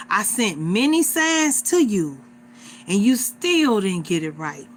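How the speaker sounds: lightly voiced God delivering a stern verdict; God passing judgment. God to a person on Judgment Day, a mildly forceful judging voice. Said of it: "And he asks you".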